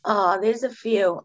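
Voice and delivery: slow, voice catching with real tears; tearing up. Real, not acted. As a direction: let the emotion break through as you say it. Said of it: "I'm gonna get emotional".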